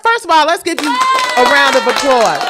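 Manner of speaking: loud, high celebratory shout; excited cheering. Real, not acted. Host calls for applause for a devoted fan, cheering. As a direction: whoop it up for an honoree.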